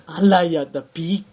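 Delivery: loud, surprised housewife exclamation; gossiping auntie. Pretend. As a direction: gasp like a chatty auntie. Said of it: "「あら、やだー」とか".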